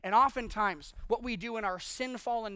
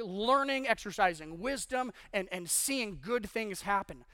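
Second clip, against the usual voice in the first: like servants amazed at their chance; excited servants. Acted. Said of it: "The first two saw it as an opportunity".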